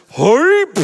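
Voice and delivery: hype shout. Acted. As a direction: shout it out to pump the crowd. Host hypes the crowd.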